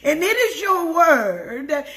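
emphatic, measured sermon cadence, key words stretched; preaching. Real, not acted. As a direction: expound scripture with weighty pauses between phrases. Expounds scripture to the congregation.

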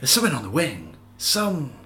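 understated, badly faked actor delivery; William Shatner. Podcaster retries the line for his co-host, weak Shatner impression. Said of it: "I can't do the Shatner voice".

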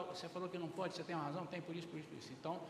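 quiet, gentle talk with the wife; husband quietly agreeing with his wife in front of the child; soft reassuring. Shown as a demonstration. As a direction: talk it over softly with the wife, backing her up. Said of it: "Aí vai lá".

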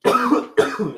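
harsh hacking cough; coughing fit. Real, not acted. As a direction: cough hard and raw. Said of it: "Sorry I'm coughing so much".

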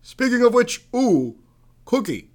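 Obama cadence reading Cookie Monster tweets. Pretend. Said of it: "oh, I got one".

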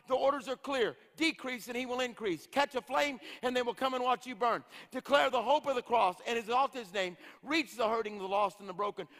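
lightly declaimed preacher's reading; prophetic declaration. Real, not acted. Preacher reading a prophetic word to the church, declamatory. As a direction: declare it in firm, rhythmic phrases.

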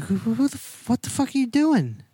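high-pitched, stammering mock outrage; pissed-off dad. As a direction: imitate an angry little man sputtering. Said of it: "like an in-shape Mario who's pissed".

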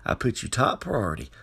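low, subdued prayer; model prayer. Shown as a demonstration. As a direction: pray humbly and apologetically to God. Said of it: "and just say".

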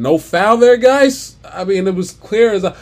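high and loud, disbelieving; mock-stunned protest at the refs; incredulous. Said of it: "I'm like".

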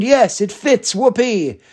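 high-pitched storybook squeal of triumph; mock excited scream. A narrator's reading. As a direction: crow it in playful delight. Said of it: "But she screamed".

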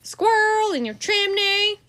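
lightly voiced officer and caller; character dialogue. Phone dialogue voiced by parent.

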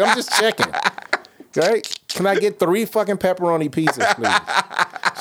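high, pushy comic ordering; mock exasperation. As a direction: order as if braced for bad news. Retells pizza order amid laughter.

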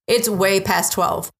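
talking between sips of coffee; while sipping a drink. Real, not acted. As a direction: sip coffee mid-sentence. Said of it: "if you hear me sipping".

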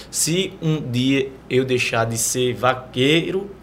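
"Se um dia eu deixar de ser vaqueiro" slowly, syllable by syllable; measured demonstration of the metre in "Se um dia eu deixar de ser vaqueiro"; slow syllable count. Shown as a demonstration. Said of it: "Só que é até a última sílaba".

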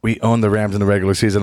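a lightly voiced boastful friend; a rapper's voice. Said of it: "I heard a rapper's voice".

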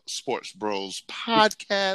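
slow, drawn-out announcer plug. Pretend. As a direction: stretch each word like a radio host. Repeating the podcast name, drawn out.

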